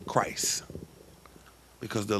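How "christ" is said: whispered name. Acted. Sermon climax on the name.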